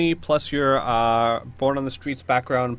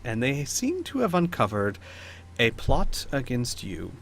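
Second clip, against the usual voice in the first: lightly voiced courtly lady, measured; Lady Celine. Lady Celine presents her pathfinders to the baroness, lightly acted courtly poise. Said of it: "And Lady Celine says".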